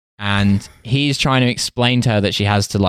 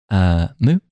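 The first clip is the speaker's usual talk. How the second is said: cow moo. Retold or imitated. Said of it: "what Hussein would sound like if he was a cow".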